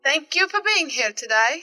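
put-on British closing line; British accent. Co-host giving closing statement in a playful British accent. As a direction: sign off in an amateur British accent.

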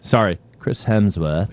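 put-on a botched Aussie accent that comes out British, slow; mock Aussie accent that sounds British; failed Australian accent. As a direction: try an Australian voice and slip into British. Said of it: "that was British. It wasn't Australian".

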